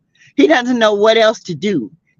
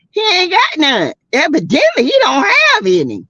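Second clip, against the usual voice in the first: outraged shout; 10 semitones higher than usual. Real, not acted. Host yells at chat that he has no real friends, outraged. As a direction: yell it in disbelief.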